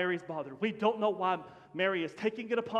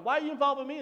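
higher-pitched mock annoyance; disrespectful misreading; 4 semitones higher, faster than usual. Son brushing off his mother's request, mock annoyed. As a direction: act put out at being dragged in. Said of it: "That's not what he's saying".

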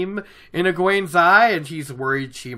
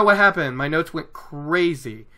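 ordinary talk

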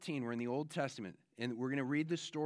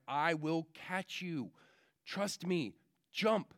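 sweet-talking dad who rises on the last word; coaxing dad; 2 semitones higher, slower than usual. Retold or imitated. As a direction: lure him in with a slow reassuring promise. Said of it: "The dad's like".

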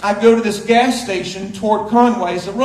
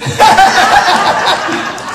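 laugh; 8 semitones higher, 4 dB louder than usual. Real, not acted. Laughs after vegan punchline.

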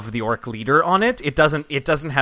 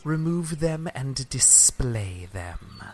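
guard voice; 4 dB quieter, much slower than usual. Acted. Guard leader gives an order.

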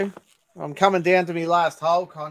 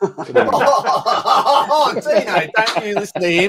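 laughing, higher and louder, mock protective; playful laughing scold; 4 semitones higher, 6 dB louder, much slower than usual. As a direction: tease through laughter as if defending Dino. Mock scolding on Dino's behalf.

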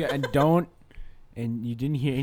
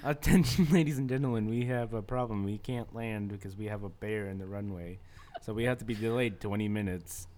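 airline pilot announcement; 2 semitones lower than usual. Pretend. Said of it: "do the pilot's voice one more time".

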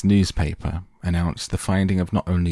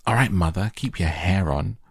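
shouted; 2 semitones higher, 3 dB louder than usual. Acted. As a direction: shout it back across the room, impatient. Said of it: "Miss Beauregard shouted".

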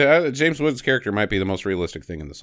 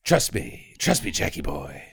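creepy coach murmur; 9 semitones lower, 6 dB quieter than usual. Retold or imitated. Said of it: "mocks coach voice".

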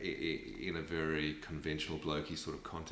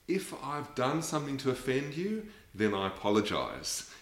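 imitating a dismissive apology, pitched higher on "If I've done something to offend you"; "then I apologise" said offhand, with a hint of sarcasm; mock non-apology; 7 semitones higher than usual. Mocking men who dodge blame, a lightly sarcastic non-apology. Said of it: "the worst thing that people say is they'll go".

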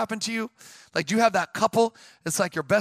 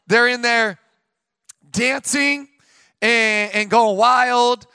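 mock wild excitement; 2 semitones higher, 5 dB louder, much slower than usual. Retelling the wild dancing.

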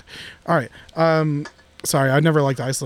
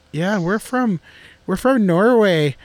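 put-on Norwegian accent; 3 semitones higher, slower than usual. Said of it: "Is that your, uh, attempt? At a Norwegian accent?".

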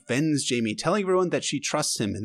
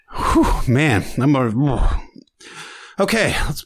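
slow, shaky exhale of tears; choked up; 4 dB louder, much slower than usual. Real, not acted. Overcome after the knighting scene, choked up. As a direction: fight back the tears.

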